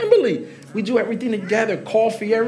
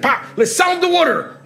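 higher and a bit louder, laughing as he quotes; imitating Adrian; 10 semitones higher, 4 dB louder than usual. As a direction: play the eager young staffer with a grin. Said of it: "He was like".

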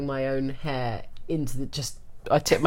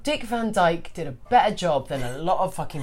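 laughing rant; 3 semitones higher, 5 dB louder than usual. Retold or imitated. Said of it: "And then you're like".

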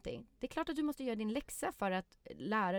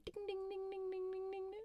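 high, soft ding-ding bells; wheel ding imitation; 11 semitones higher, 8 dB quieter than usual. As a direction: chime it like a prize wheel.

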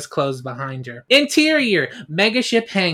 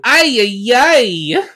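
panicked cry; 7 semitones higher, 6 dB louder, much slower than usual. A narrator's reading. Robot panics at the saw.

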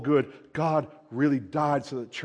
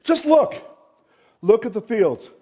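urgent call; 4 semitones higher, 4 dB louder than usual. Retold or imitated. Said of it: "He goes".

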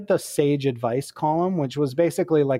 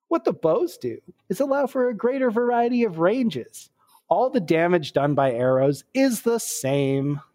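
glib mock-pedantic answer; lightly Monty Python-esque lecturing; 2 semitones higher than usual. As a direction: read it out like a pompous advice columnist. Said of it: "a little glib with the answers".

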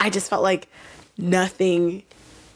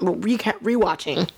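tipsy slurred speech; stumbling over words, tipsy. Real, not acted. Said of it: "I'm so drunk right now".

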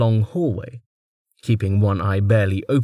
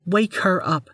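higher, curt noblewoman's order; commanding lady; 10 semitones higher than usual. Acted. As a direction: give a cold command. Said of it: "Inar commanded Man three".

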